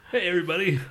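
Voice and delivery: mock-announce it to the whole class; oversharing teacher.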